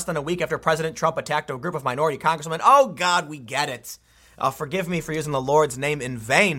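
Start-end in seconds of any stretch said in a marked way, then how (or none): 2.6-4.0 exasperated. Real, not acted. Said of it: "I am exasperated".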